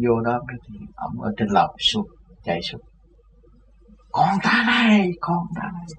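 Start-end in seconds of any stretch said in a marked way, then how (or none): 4.1-5.9 high, joyful cry of welcome; excited greeting. Retold or imitated. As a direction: call out happily to a long-lost son. Old man runs down, joyful greeting. (mừng rỡ gọi con)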